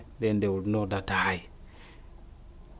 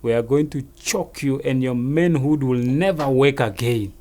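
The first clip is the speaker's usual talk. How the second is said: loud mock police threat; imitated intimidation; 4 dB louder than usual. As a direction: scare him with what's coming. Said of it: "the police were scaring him".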